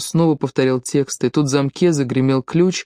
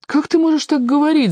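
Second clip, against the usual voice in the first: angry shout; 13 semitones higher than usual. A narrator's reading. Mayor yelling at Tiori through the door, angry and high. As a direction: shout it in outrage, pitched high. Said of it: "закричал бургомистр сердито".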